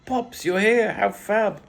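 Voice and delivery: high, loud delighted greeting; excited daughter. A narrator's reading. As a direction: pipe up as a daughter thrilled by dad's arrival. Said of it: "I heard Lizzie's voice pop out".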